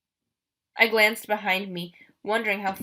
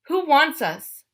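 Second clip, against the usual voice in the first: put-on louder, higher defiant girl; girl defies the monster, raised and demanding; 7 semitones higher, 6 dB louder, slower than usual. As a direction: push back at the captor. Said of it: "Bianca demanded".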